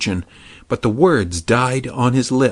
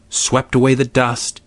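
plain reading voice

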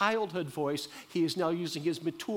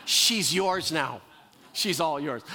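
put-on slower and louder, a relieved parent giving the kid away; mock parent handing off kid; 4 dB louder than usual. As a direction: hand the teenager over with mock relief. Parent handing over teenager, joke.

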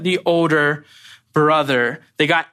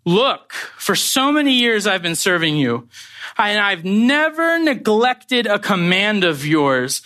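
put-on aggrieved older son; 4 semitones higher than usual. Older son protesting to his father, aggrieved. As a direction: stretch the key words in complaint. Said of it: "he answered and said to the father".

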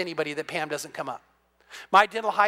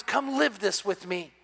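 soft, slow, inviting call; tender divine invitation, unhurried; gentle invitation; 4 dB quieter, slower than usual. Retold or imitated. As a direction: coax them in quietly. God's invitation, gently voiced.

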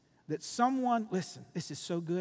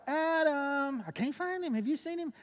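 mock confused God; 7 semitones higher than usual. Mocking a lost God.

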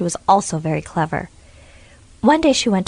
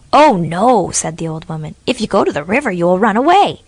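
louder sharp witch refusal; alarmed witch; 5 dB louder than usual. Acted. Witch to the girls stopping them from leaving, loud alarm.

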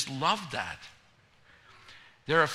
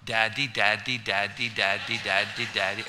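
lower, coaxing repeated daddy; 4 semitones lower than usual. Retold or imitated. Dad coaxing baby in lower coaxing voice. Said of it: "We're going".

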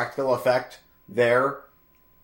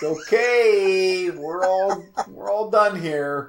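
laughing exasperation; 4 semitones higher, much slower than usual. Retold or imitated. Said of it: "You're like".

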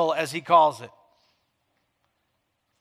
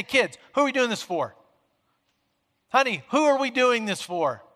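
pointed, probing question to the family, "who" pushed up; with that attitude; 3 semitones higher than usual. Shown as a demonstration. Preacher asks family at the table, with attitude. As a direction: ask it like you mean it, a little challenging. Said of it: "You gotta say it with that attitude".

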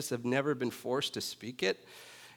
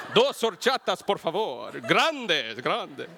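put-on louder, higher Mexican Spanish accent, rolling every sound; confident Spanish; 4 semitones higher, 5 dB louder, slower than usual. Ordering horchatas in a loud, proud Mexican Spanish accent. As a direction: nail the Mexican Spanish like a native at the counter. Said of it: "Like that".

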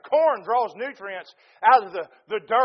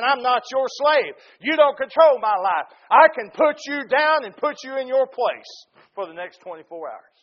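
louder, emphatic stand against work; defiant declaration; 2 semitones higher, 4 dB louder than usual. Acted. Preacher acting out a worker telling work who is boss, defiant. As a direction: put it firmly in its place.

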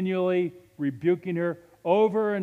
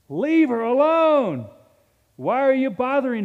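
forceful rebuke; 8 semitones higher, 6 dB louder than usual. Shown as a demonstration. Jesus to the rebuking disciples, forceful loud rebuke. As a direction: order them to leave her alone, firmly. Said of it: "He didn't say it like that".

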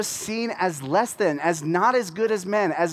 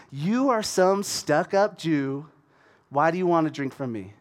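feisty; 3 semitones lower than usual. Acted. Samaritan woman calling out Jesus, feisty. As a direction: give it back with deliberate sass. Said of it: "She's feisty".

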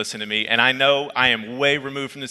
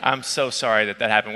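straight-faced sympathy; 3 semitones lower than usual. Retold or imitated. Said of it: "took it off mute and I said".

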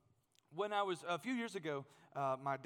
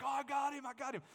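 higher, louder, gleeful "I got him"; excited mock triumph; 9 semitones higher, 4 dB louder than usual. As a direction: retell the thrill of hooking the fish. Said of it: "And I'm like".

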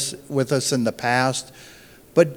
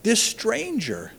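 higher and much softer, slow and sorrowful; soft sad Jesus quote; 6 semitones higher, 6 dB quieter than usual. Retold or imitated. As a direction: say it gently with quiet sorrow, slowly. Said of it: "and he's going".

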